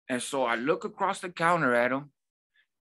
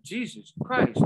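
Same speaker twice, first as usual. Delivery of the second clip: high, strained exasperated cry; overwhelmed customer at Subway, exasperated high cry; overwhelmed exasperation; 10 semitones higher, 3 dB louder, slower than usual. Retold or imitated. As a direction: throw up your hands, high and strained. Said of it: "I'm getting overwhelmed".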